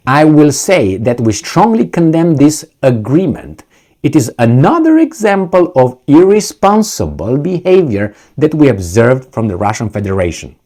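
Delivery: lightly hammed-up official condemnation; mock superior. Quoting an official who condemns Russia, lightly mocking superior tone. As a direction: quote it like a teacher scolding an inferior. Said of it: "Someone who talks like this, it's either a superior".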